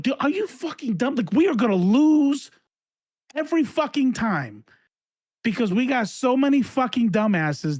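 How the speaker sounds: losing it. Real, not acted. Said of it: "Sorry, I had to fucking, I just lost a little bit".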